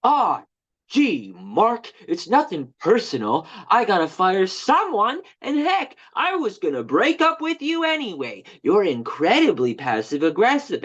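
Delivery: lightly voiced ex-boss, breezy and chummy; a hint of the boss letting him down easy, no real change of voice; pretending to be Victor Collins. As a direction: guide playing his supervisor dumping him, lightly put on. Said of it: "let's pretend I'm Victor and you're me".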